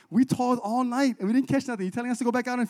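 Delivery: high-pitched indignant protest; acted fisherman's disbelief, picking up pace; incredulous. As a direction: challenge an absurd order. Voicing fisherman's retort to Jesus.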